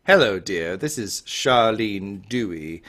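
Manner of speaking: lightly voiced older lady, unhurried; Charlene Dewey, genteel mother. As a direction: play a politely inquiring mother on a call.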